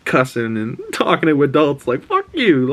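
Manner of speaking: rising to a high defiant outburst; Ellie cussing back. Retold or imitated. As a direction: build up and fire off the curse. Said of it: "and she goes".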